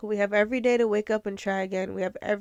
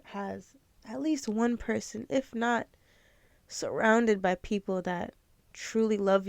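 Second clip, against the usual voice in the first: tearful; 4 dB quieter than usual. Real, not acted. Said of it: "I'm a crybaby".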